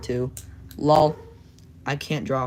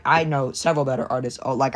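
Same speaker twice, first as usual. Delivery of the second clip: ordinary talk, nothing marked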